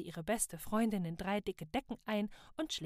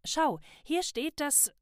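eager; 7 semitones higher, 5 dB louder, slower than usual. A narrator's reading. Eager elf shows book.

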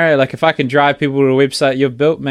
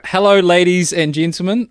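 stage announcer; 4 semitones higher than usual. Pretend. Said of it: "I can entertain a crowd".

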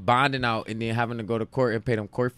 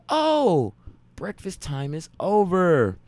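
surprised; 4 semitones higher, much slower than usual. Retold or imitated. Reacting to Russian's outburst.

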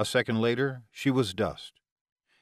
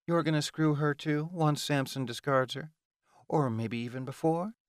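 higher-pitched goading questions; taunting Ilona; 6 semitones higher than usual. Acted. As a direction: needle him in a raised voice. Ilona goads Amori.

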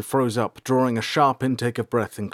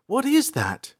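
put-on high young girl's voice, wide-eyed; April, astonished; slower than usual. A narrator's reading. April staring out the window, high astonished girl. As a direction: gasp it out as the girl stares from the carriage. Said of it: "she asked, mouth agape".

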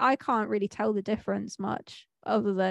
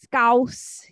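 loud correction; 3 semitones higher, 7 dB louder than usual. Real, not acted. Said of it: "Do you mean Scouse?".

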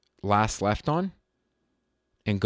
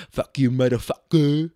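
mock Vietnamese-accented cursing; hammed-up fake Vietnamese accent; stereotypical Vietnamese accent; 2 semitones higher, 3 dB louder than usual. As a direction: imitate a caricatured Vietnamese accent. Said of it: "like, the Vietnamese accent".

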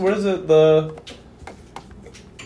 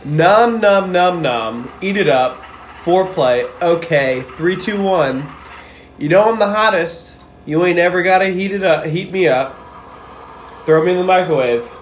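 dramatic poem reading. Pretend. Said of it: "read 'em like a dramatic poem".

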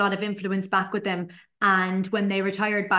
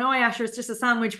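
put-on offhand, shrugging teen voice; careless teen. Fourteen-year-old dismissing sandwich making, offhand and careless. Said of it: "you're just going".

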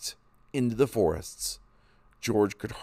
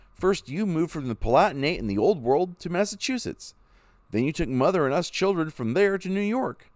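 put-on higher, pleading young man's voice; young son begging to leave home; eager young son; 8 semitones higher than usual. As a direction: argue with father, keen for adventure.

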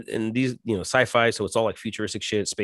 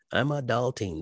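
mocking quote; 3 semitones higher, 4 dB quieter than usual. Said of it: "that word, adulting".

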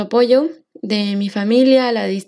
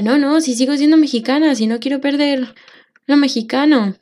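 indignant protest; 4 semitones higher than usual. Retold or imitated. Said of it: "me daba rabia".

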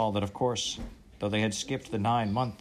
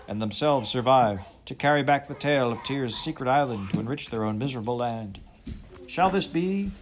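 rousing speech; 3 semitones higher, 3 dB louder than usual. Acted. Captain rallies crew in speech.

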